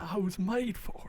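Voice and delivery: breathy whispered line. Pretend. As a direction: whisper it like a devotee. Whispered reply in the bit.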